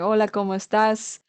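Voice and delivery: put-on Hola, ¿cómo estás? flowing, with a native-like Spanish accent; easy, natural Spanish pronunciation. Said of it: "a little bit of a natural accent".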